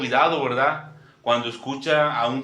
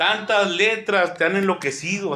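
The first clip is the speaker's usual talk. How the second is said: put-on angry shout, higher; 7 semitones higher than usual. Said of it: "le gritaba".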